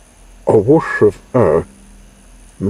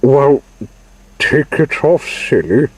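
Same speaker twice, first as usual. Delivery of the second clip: exasperated; 7 semitones higher, 4 dB louder than usual. A narrator's reading. Maurice scolds stuck friend.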